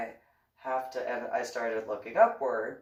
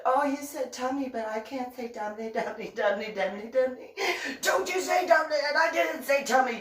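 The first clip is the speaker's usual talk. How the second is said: giggly tease; 11 semitones higher, 4 dB louder than usual. Retold or imitated. Retelling tease, still giggling.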